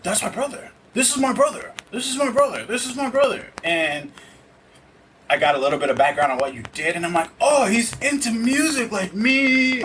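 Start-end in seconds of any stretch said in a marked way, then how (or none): 0.0-3.5 high, excited repeated exclaiming; pitched way up, giddy with discovery; overjoyed disbelief. Retold or imitated. Retelling emotional realization, repeated. 7.4-9.8 delighted realization. Retold or imitated. Imitating own past thought.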